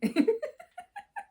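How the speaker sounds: high burst of laughter; real high laugh; high giggle. Real, not acted. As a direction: giggle at the memory. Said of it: "I'm laughing now".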